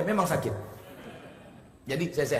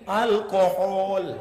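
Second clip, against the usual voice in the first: slow nurse answer; 6 semitones higher, 5 dB louder, much slower than usual. Retold or imitated.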